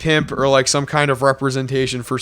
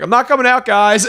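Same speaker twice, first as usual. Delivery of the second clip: high, singsong taunt; 8 semitones higher than usual. Retold or imitated. Drunk narrator teasing the men outside, high and playful. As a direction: tease them through the door. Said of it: "open the door crack and be like".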